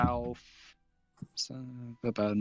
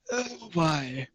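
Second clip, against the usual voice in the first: a cheerful cactus, slightly raised pitch; talking cactus; 3 semitones higher than usual. Acted. GM voices the cactus greeting the player.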